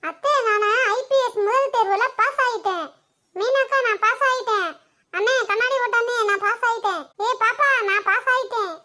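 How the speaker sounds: laughing, bubbling announcement; can't hold in the happy news; breathless giggly boasting; giddy with joy. Acted. Announcing exam pass to everyone.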